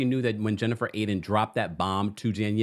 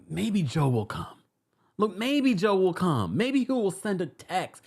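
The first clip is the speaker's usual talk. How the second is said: slow, higher-pitched wishful voice; softie's hope; 7 semitones higher, slower than usual. Retold or imitated. Softie viewer hoping the brother comes, wishful. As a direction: draw out each maybe, hopefully. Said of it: "maybe 'cause I'm a softie".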